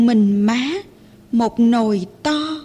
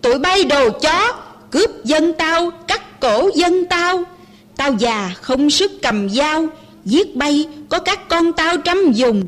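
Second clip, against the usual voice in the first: mother shouting; 3 semitones higher than usual. Acted. Old mother defies the French soldiers, shouting higher. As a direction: hurl the words at the soldiers from a raised voice. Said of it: "Má hét lớn".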